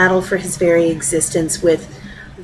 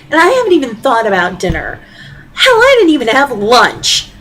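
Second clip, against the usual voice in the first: higher, rising overwhelmed rant; wife snapping at her husband over everything; exasperated outburst; 5 semitones higher than usual. Acted. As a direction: let it all pour out, fed up. Wife finally snaps at husband.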